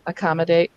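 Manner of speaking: "accommodate" starting on an uh sound; schwa on initial A. Shown as a demonstration. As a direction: say "accommodate" as uh-COM-uh-date. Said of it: "tends to use the uh sound".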